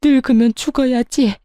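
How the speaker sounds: hammed-up wailing over her own mistakes; fake wailing. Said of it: "곡소리를 내기 시작하더군요".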